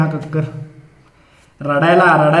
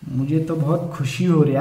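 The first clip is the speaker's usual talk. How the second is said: mock sobbing contestant; 5 semitones lower, 6 dB quieter than usual. Contestant crying on stage.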